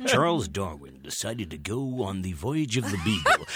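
voice-over in a put-on American accent; Liam Neeson American accent. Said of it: "he does the voiceover as an American".

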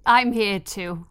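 sick and congested, speaking. Real, not acted. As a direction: talk through a head cold. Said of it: "I'm sick".

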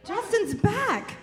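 high, slow delighted announcement; excited. Real, not acted. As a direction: call it out thrilled.

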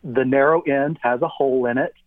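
talking around an object in the mouth; mouth full. Real, not acted. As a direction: describe it with something in your mouth. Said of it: "It's in my mouth now".

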